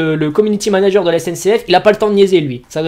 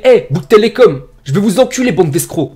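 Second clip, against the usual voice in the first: disgruntled customer; 3 dB louder than usual. Acted. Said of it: "qui est pas content du tout".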